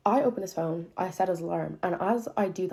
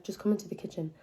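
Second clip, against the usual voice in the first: quiet, icy calm; eerily calm; 2 semitones higher, 5 dB quieter than usual. Retold or imitated. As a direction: hold it down, dangerously calm. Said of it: "got so calm and I was like".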